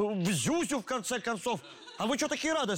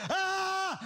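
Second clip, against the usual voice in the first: balcony yell; 6 semitones higher than usual. Retold or imitated. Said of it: "сделать".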